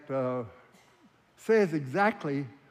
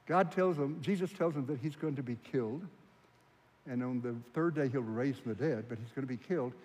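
ordinary delivery

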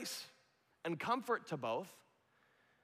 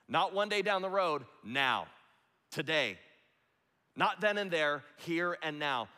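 preaching emphasis; 4 dB louder than usual. Real, not acted. Preacher presses point.

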